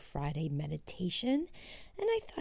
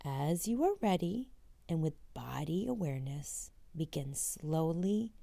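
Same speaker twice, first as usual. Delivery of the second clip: guided meditation. Acted. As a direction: guide them gently through each step. Leads a walking meditation.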